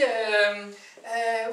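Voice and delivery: ordinary talk, nothing marked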